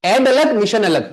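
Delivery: "ऐड" and "मिशन" as two distinct chunks; syllables separated. Shown as a demonstration. Teacher recapping admission's two syllables, each set apart. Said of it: "दो syllables है".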